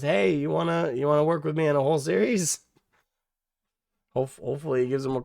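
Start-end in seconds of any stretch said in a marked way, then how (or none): 0.0-2.6 imagined offer, voiced much higher and louder; Henry Cavill pitching. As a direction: pitch a whole series like an eager star. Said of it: "hopefully Henry Cavill calls this, these folks and says".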